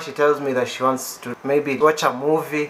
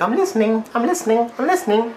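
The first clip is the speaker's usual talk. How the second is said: imitated protest; 7 semitones higher than usual. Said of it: "Then I'm always like".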